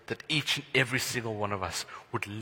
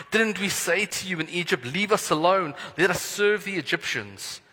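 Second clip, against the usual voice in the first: Israelites' frightened complaint, a touch higher; mild terror; 4 semitones higher than usual. Acted. Israelites cry out to Moses in fear, a touch of panic. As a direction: panicky accusing question, lightly acted. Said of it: "They were terrified and cried out".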